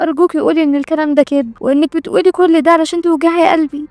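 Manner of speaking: a mother begging to hear it's a lie; pleading mother. Acted. Mother begging her daughter. (رجاء أم متوسلة)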